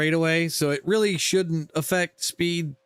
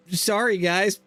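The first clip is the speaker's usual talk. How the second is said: laughing; 3 semitones higher than usual. Real, not acted. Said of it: "I can't even say that with a straight face".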